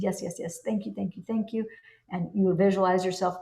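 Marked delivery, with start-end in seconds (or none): 0.0-1.6 softer, breathy-free murmured thanks full of gratitude; whisper-soft yes and thank you, heartfelt; quietly grateful, rising on the last thank you. Pretend. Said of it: "in gratitude".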